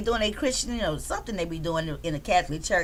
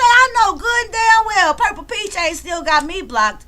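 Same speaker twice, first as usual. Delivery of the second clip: mock disbelief; 7 semitones higher, 5 dB louder than usual. Retelling own disbelief, pitch jumps.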